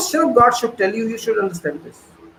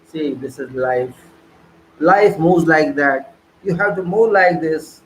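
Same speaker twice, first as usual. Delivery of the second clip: mock resigned excuse; 4 semitones lower than usual. Mocking ordinary people who excuse themselves, lower and slow. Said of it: "Very simple excuse".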